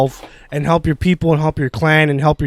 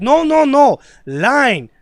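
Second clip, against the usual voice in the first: mock impatient foreman; 3 semitones higher, slower than usual. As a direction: imitate an impatient coworker spelling it out. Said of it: "He's like".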